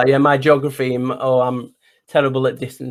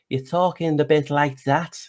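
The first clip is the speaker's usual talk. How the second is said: Liverpool Scouse, slightly softer; Scouse accent; 3 semitones higher, 3 dB quieter than usual. Shown as a demonstration. No good at accents, showing the host strong Liverpool, Scouse accent. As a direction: have a modest go at broad Scouse. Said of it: "That's more like the Scouse".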